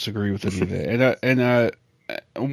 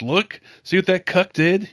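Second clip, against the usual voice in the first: higher, jeering taunt; mocking troll; 8 semitones higher than usual. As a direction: gloat like a troll showing off to his followers. Mocking troll pumping up followers.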